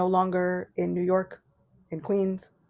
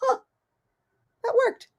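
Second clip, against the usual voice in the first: surprise; 12 semitones higher than usual. Retold or imitated. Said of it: "I'm like".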